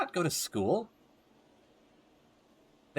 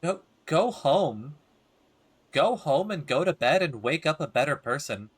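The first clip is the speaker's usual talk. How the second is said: scolding. Real, not acted. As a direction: tell her off firmly. Scolding the neighbour character.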